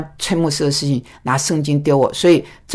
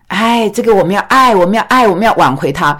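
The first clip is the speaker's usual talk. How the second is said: lightly raised, mock-sweet church talk; mock pious voice; 3 semitones higher than usual. Mocking others' soft excuse.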